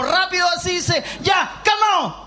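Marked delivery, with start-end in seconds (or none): 1.2-2.2 offhand calm-down. Acted. Jesus calms the sea.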